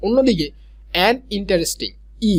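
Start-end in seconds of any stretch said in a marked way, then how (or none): 2.3-2.3 "ই" alone, as a separate "i" sound; isolated vowel. Shown as a demonstration. Teacher isolating the first vowel of interesting, sounded out. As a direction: sound out "ই" by itself. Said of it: "ই এর মতো উচ্চারণ হচ্ছে".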